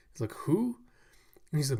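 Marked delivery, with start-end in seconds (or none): 0.3-0.8 high, sharp surprised question; surprised who. Acted. Frankie hearing a new name, high surprised question.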